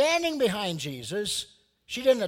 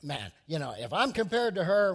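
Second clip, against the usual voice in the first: smug Pharisee; 5 dB louder than usual. Retold or imitated. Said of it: "Pharisee thought".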